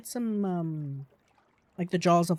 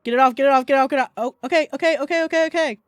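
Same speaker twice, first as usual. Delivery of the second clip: shaking off a spider; 7 semitones higher, 8 dB louder, much faster than usual. Real, not acted. Panicked, something on her.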